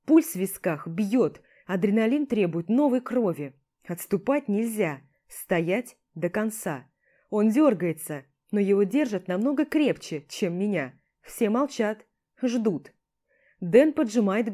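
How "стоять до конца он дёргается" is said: plain reading voice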